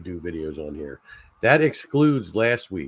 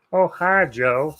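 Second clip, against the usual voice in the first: much higher, louder cartoon greeting; cartoon impression; 7 semitones higher, 3 dB louder, slower than usual. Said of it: "my impression of him".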